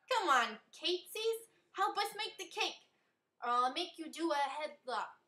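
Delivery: goofy high voice. A narrator's reading. Amy babbles nonsense.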